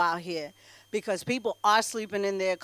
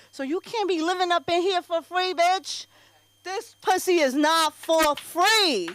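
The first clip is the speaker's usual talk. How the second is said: sassy telling-off; 5 semitones higher than usual. Retold or imitated. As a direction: lean into each word, daring him to argue. Telling off husband.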